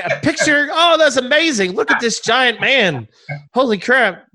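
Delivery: high, excited gushing; mock amazement. Acting out amazed locals with baby.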